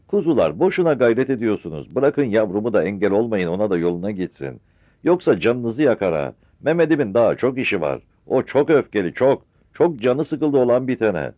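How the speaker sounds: loud, high warning; warning shout. Acted. Mother loudly warns gendarmes off her son. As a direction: call out a threat loudly.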